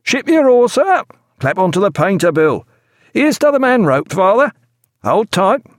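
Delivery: high loud shouted orders; boat cries. A narrator's reading. Sailors shout to the boat alongside. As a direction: bellow across the side. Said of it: "the cries of".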